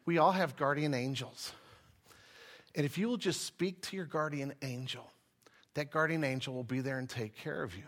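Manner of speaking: low, soft, soothing woman imitated; really sweet. Pastor mimics woman teaching on guardian angels, sweet. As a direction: reassure gently, in a hushed sweet tone. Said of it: "She was really sweet".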